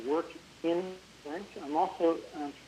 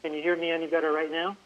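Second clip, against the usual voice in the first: louder for a bad line; speaking up; 4 dB louder than usual. Real, not acted. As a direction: raise the voice to be heard. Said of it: "Could you speak up".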